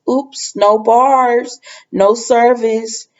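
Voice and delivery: high, drawn-out mock regret; slow singsong pretend apology; feigned oops. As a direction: stretch out a phony little excuse. Acting out Allie's phone excuse.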